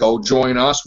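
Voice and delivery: low, menacing devil voice; demon voice. Retold or imitated. Retelling the goat tempting the girl, low devil voice. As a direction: lure her in like the devil. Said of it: "talking like a demon voice".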